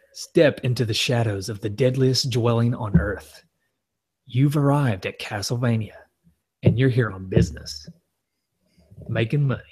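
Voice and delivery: dramatic movie-trailer announcer. Acted. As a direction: read it like a spooky trailer announcer. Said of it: "let me get my announcer voice".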